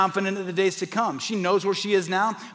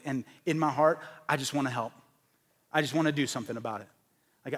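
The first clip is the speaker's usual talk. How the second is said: softer, sincere resolve; sincere inner voice; 4 semitones lower, 3 dB quieter than usual. Pretend. Pastor voices a caring woman's heart to the church, sincere and softer. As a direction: speak it like a quiet promise to yourself.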